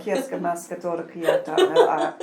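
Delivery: playful burst of made-up tongue; light language. Retold or imitated. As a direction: rattle off mystical syllables with a laugh. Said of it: "I speak it in Tesco's".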